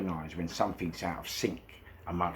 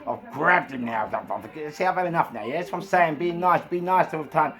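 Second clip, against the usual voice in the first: raised, louder agitated rant; fed-up confrontation; 8 semitones higher, 4 dB louder than usual. Retold or imitated. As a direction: get worked up, pitched high and loud. Fed-up speaker grabs man, confronts him.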